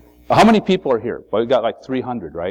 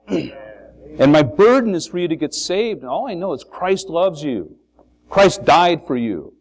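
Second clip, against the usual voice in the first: heartfelt plea; 6 semitones higher than usual. Retold or imitated. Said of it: "But you mean that".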